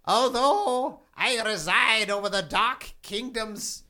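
lightly voiced king of hell prophesying; ominous prophecy. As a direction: intone it like a dark prophet. Demon king delivers dire warning.

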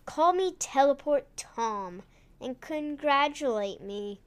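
lightly voiced storybook villain; bad guy voice. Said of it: "He said in a bad guy voice".

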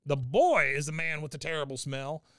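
high-pitched indignant protest; Cotton. Retold or imitated. Cotton protests he didn't do it, high and indignant. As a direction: crow it, pitched well up. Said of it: "of course, Cotton's, he's like".

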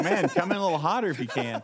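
quoting the radio guy through a laugh; laughing mock DJ. Radio station urging the band on, laughing. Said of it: "they're like".

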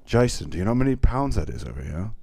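lightly voiced angry Gary; a hint of Gary's rant; Gary impression. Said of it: "I can do a good Gary".

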